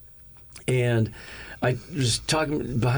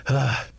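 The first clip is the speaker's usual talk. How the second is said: reluctant sigh. Retold or imitated. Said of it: "with a sigh and kind of a".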